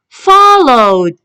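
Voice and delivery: "Followed" ending in d; teacher's model "Followed", closing on a voiced d; final d sound. Shown as a demonstration. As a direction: say "Followed" carefully with ed as d. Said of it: "The d sound".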